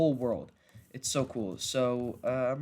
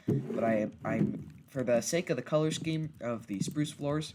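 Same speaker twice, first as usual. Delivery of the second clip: tripping over the first words; stuttering. Real, not acted. Vlogger fumbling an explanation of the color scheme, stuttering. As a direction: stumble on "I", then restart. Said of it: "I'm stuttering a lot".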